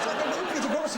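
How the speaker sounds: high Hungarian lilt on Pythagoras; Hungarian pronunciation. Retold or imitated. Retelling in grandfather's accent, high. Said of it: "he was Hungarian".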